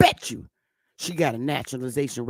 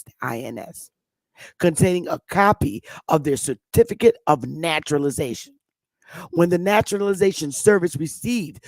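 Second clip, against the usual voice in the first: formal document read-out, emphatic on key terms; reading aloud. Real, not acted. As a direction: read the official text out deliberately. Reads a record aloud.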